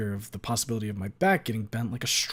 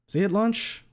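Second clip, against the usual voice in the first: bro voice; 10 semitones higher, 5 dB louder than usual. Acted. Leon voice.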